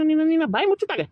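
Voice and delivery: high, loud threat; angry shout. Acted. Threatening the crying child, high angry yell.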